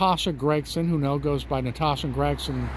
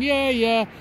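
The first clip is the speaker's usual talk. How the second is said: put-on a drunk jeering at someone drowning; drunken voice; 5 semitones higher than usual. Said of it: "a drunken voice saying".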